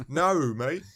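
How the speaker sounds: light Australian accent on Naru, mate; quick Aussie twang, rising at the end. Shown as a demonstration. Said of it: "No, I'm not gonna try doing an Australian accent".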